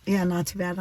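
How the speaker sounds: talking through a yawn. Real, not acted. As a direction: say it mid-yawn, tired. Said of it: "I'm yawning".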